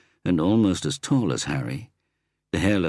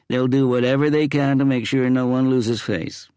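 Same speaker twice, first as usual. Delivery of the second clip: loud and clear; 8 semitones higher, 5 dB louder than usual. A narrator's reading. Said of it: "she said loud and clear".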